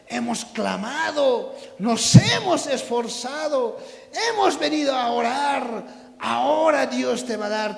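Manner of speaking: impassioned exhortation with stretched key words; building preaching. Real, not acted. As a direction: build the congregation's expectation phrase by phrase.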